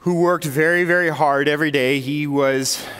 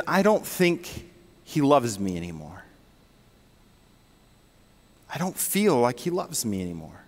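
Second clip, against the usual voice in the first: tearful wife; 5 semitones lower, 5 dB quieter than usual. Retold or imitated. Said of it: "as she begins to tear up and share".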